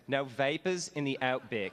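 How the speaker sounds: a light imitation of Mister Davison's accent, laughing through it; a teacher hamming up Mister Davison's accent with a laugh. To the graduates, quoting Mister Davison, a mild imitation of his accent. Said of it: "I'm gonna try this in his accent".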